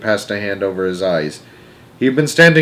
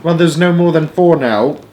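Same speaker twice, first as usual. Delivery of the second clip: raised, anxious outcry; alarmed cry; 5 semitones higher, 4 dB louder than usual. A narrator's reading. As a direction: cry it out in dismay. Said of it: "Missus Buckets cried".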